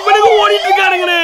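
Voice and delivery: sobbing. Acted. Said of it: "தேம்பி தேம்பி அழுகுற".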